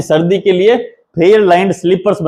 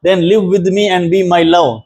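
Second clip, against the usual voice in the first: poem recitation; much slower than usual. Shown as a demonstration. Teacher recites poem line.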